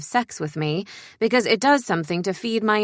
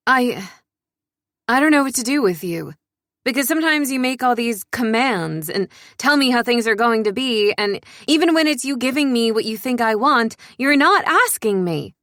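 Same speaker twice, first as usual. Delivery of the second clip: frustrated outburst; 4 semitones higher than usual. Acted. Narrator venting at Lucian about his commands, heated and fast. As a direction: let the frustration spill out at him.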